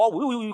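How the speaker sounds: mock yelp of a dog slapped by a cat, "اوئی" said lightly; playful imitation of a hurt dog's yelp. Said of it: "کر کے بھاگا ہے وہ".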